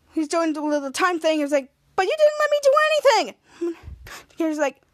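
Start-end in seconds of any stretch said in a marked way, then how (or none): 2.0-3.3 high, sustained indignant protest; whining complaint. Retold or imitated. Captain Man protests to Kid Danger, high indignant complaint. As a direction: complain loudly at being left out.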